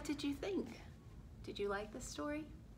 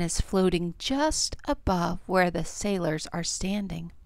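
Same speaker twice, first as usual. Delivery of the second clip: put-on expressive picture-book narration for children; story read-aloud; 2 semitones lower, 14 dB louder than usual. A narrator's reading. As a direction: read it to young children, clearly projected.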